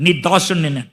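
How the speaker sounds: mock a groveling servant, hushed; humble pleading. Preacher voicing David groveling to the king, humbly hushed. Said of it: "దీనంగా మాట్లాడుతూ".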